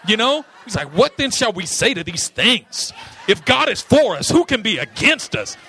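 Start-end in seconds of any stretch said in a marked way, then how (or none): 1.0-5.6 loud rapper shout; a rapper's voice. Retold or imitated. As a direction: belt it like a rapper rapping. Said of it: "Paul going into his rapper voice".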